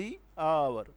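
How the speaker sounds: "the" with a long ee, "hour" without h; "the" as "dee". Shown as a demonstration. Teacher answering own question, "the hour" said "dee our". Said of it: "ادھر ہم کیا لیں گے؟".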